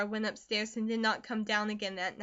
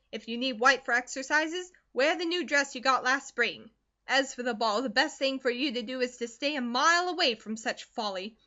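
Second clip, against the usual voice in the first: loud, scolding country mother; hard stern mother; 2 semitones higher, 5 dB louder than usual. Acted. Mother orders daughter to quit school, loud and stern. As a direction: lay down the law, no room to argue. Narrator voices Mrs Comstock.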